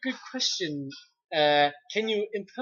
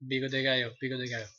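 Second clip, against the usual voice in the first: quiet Spanish accent warm-up; 4 semitones lower, 5 dB quieter, much faster than usual. Shown as a demonstration. Warming up a Spanish accent before the impression. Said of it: "get into my Spanish accent".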